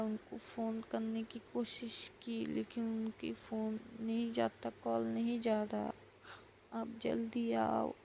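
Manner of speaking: put-on a frightened boy pleading for help; understated weepy pleading; mock crying child. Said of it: "तो रो रो के बोल रहा था".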